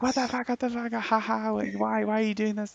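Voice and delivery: high-pitched imitation of a squeezed girl; mock girl's protest. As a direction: plead in a put-on high voice, half laughing. Squeezed girl protests in retold prank.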